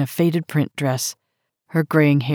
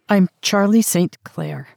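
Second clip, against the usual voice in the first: put-on young American woman; 4 semitones higher, 3 dB louder than usual. Narrator voices young American.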